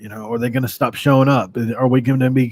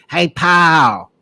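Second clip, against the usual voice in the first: higher, louder put-on dad voice; dad's voice; 5 semitones higher, 4 dB louder than usual. Son imitating dad's Hey pal, higher and louder. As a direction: do dad greeting his son. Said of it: "That's how my dad would talk".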